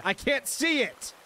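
high, loud frightened questions; panicked. Real, not acted. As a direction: search for the bug in real panic. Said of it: "I'm panicking".

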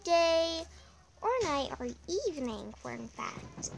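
a lightly put-on cute voice. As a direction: attempt a cute little voice for the goodbye. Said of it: "I'll use my cute voice for the ending".

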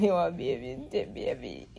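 imitating her mother. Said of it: "my mother laugh like she has said".

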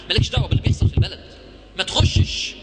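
loud, fast urgent warning; forceful warning. Real, not acted. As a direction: hammer the warning home. Emphatic warning to audience. (تحذير قوي بصوت عالي)

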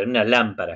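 "lámpara" with the accent on LÁM; stress on first syllable. Shown as a demonstration. Teacher shows a student where "lámpara" is accented, first-syllable stress. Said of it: "Acento en la primera".

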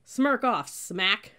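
loud, high, sudden rebuke; angry bark. A narrator's reading. Cadet to a recruit who smiled back, barking angrily. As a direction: wipe out that smile.

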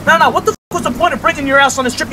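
heated complaint. Shown as a demonstration. Doing all the fishing, yelling at her lazy partner, fed up. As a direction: complain hotly about doing all the work. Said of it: "retake, more heated".

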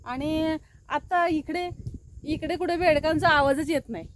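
ordinary delivery

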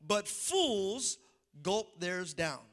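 slow, solemn scripture read; preacher reading the NIV verse slowly. Acted. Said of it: "it says".

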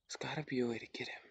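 quick, hushed thinking aloud; real half-whisper to self. Real, not acted. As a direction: whisper it fast, absorbed in working it out. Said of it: "Sorry if I'm whispering".

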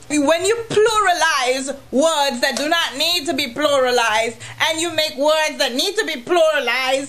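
ordinary talk

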